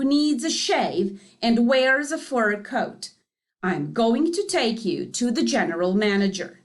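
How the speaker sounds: loud, scolding and angry; mad foreman. Acted. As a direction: tell him off, fed up. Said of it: "He was very mad".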